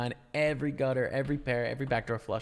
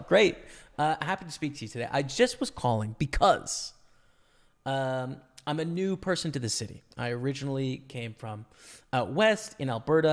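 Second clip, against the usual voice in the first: polite phone voice. Shown as a demonstration. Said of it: "with a good phone voice".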